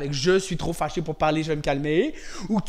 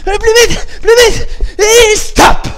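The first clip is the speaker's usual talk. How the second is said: high, loud coaching yells; coach shouting; 13 semitones higher, 13 dB louder than usual. Real, not acted. Coach urging kids through a punching drill, shouting.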